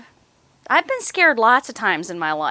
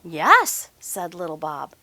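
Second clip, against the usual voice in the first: lively storybook reading voice; reading to children. Acted. Teacher reading a picture book to children. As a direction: read it to the little ones.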